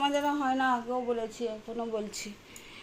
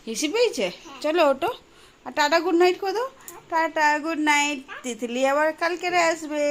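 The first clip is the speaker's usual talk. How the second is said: high coaxing voice; 5 semitones higher, 4 dB louder than usual. Real, not acted. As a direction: coax her to wave goodnight. Mother coaxing child to say goodnight.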